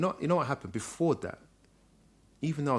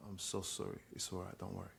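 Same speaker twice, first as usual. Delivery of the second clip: very soft, low apology; hushed and low, consoling a parent; retold soft reassurance; 4 semitones lower, 15 dB quieter than usual. Retold reconciliation with his father.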